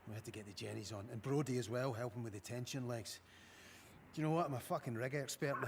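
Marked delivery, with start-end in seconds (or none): 4.2-5.7 loud laughing brag; proud chuckle. Acted. Boasting with laugh.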